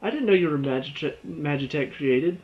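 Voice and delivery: a teammate reacting in exaggerated surprise; mock amazed reaction. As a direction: play a friend gasping at the news. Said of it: "There was no".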